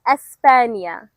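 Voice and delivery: España stretched slowly, es-PA-nya; España, slow, each syllable clear; over enunciating. Shown as a demonstration. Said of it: "One more time".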